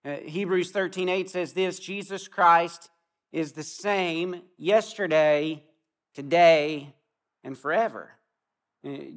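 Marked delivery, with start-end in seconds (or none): 1.8-8.1 slow, weighty scripture reading. Real, not acted. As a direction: read it slowly and solemnly.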